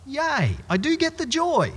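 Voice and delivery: a high, bright little yay; mock cheer. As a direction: cheer it in gentle mockery. Mock cheer over found sheep.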